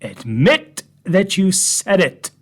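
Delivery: slow, pointed mock demand; retold shout. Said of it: "I shouted".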